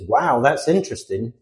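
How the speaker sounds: sincere, straightforward "wow" of interest; mean it, without drawing it out; genuine interest. Acted. American who genuinely finds it interesting, sincerely interested. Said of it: "they genuinely find it interesting".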